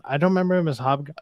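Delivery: speaking with the hiccups. Real, not acted. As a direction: talk through real hiccups. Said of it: "Sorry, I got the hiccups".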